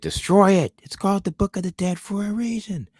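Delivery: put-on high, loud old-timey priest quote; Bruce Campbell priest voice. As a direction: boom it out like an old preacher. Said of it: "he's like".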